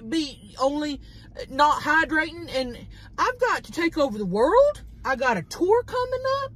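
high-pitched giggly rant; laughing high rant. Real, not acted. Laughing rant about hydration.

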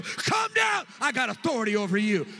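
declaring to the storm. Pretend. Believer declaring authority over the storm, loud shouted command. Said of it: "declare to the storm".

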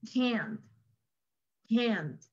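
"can't" said alone, stressed, ending on the N; emphatic short form. Shown as a demonstration. Teacher showing the short form, emphatic CAN'T. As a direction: stress "can't" and barely sound the T. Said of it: "con el énfasis ya se nota que es negativo".

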